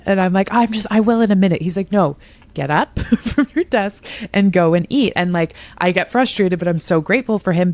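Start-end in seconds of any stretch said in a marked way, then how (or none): 0.5-1.6 quick, slightly higher brush-off, half-listening; distracted brush-off. Brushing off partner's eating reminder. 1.9-5.1 lightly voiced nagging partner, with a laugh breaking in; a hint of the partner ordering her away from the desk; insistent partner. Partner insisting she eat.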